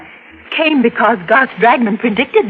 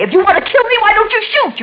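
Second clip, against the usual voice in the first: defiant challenge; 12 semitones higher than usual. Acted. Defying Garth at gunpoint.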